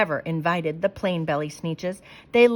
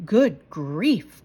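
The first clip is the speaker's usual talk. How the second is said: mild groan; 3 semitones lower than usual. Acted. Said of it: "groaned the ones".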